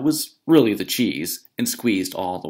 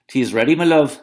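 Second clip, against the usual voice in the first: higher, sugary giant's wife; Una's sweet voice; 5 semitones higher, 6 dB louder, faster than usual. Acted. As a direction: lure him in with honeyed politeness. Una voiced.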